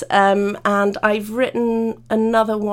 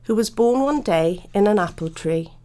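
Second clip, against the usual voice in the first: gentle rhyming storybook read; children's picture book read aloud with character lines. Acted. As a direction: lilt the verses for a young audience. Author reads her children's book.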